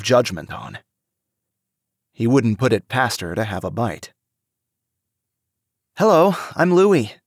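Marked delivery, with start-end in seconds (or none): 6.0-7.1 higher, louder cheerful hello; eager, outgoing introduction; bright friendly greeting. A narrator's reading.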